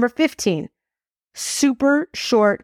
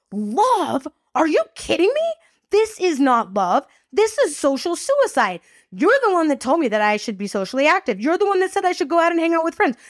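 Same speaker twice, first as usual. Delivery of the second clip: higher-pitched indignant rant at mom; reliving the eighteen-year-old's outrage, pitched up; retold teen outburst; 5 semitones higher than usual. Teen daughter protests to calm mother, indignant high rant. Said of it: "And I freaking lost it".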